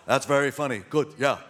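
lightly voiced impression of a comedy director; a hint of a New York director giving notes; Larry David. Director giving notes before a retake, lightly imitated. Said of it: "I might sound like I'm doing more of Bernie".

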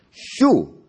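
put-on loud, high shout in a Greek accent. A narrator's reading. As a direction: shoo them off sharply with a Greek accent. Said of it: "that's a Greek accent".

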